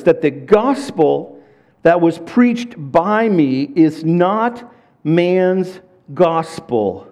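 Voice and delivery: measured, deliberate Bible reading; scripture reading. Acted. Pastor reads Galatians to the congregation, measured. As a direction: read the verse with weight, slowly.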